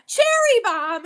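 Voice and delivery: high, slow gasp of delight; excited gasp. Real, not acted. Telling her chat Cherry Bomb won, with an excited gasp. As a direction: gasp and call the name out in delight. Announcing a giveaway winner.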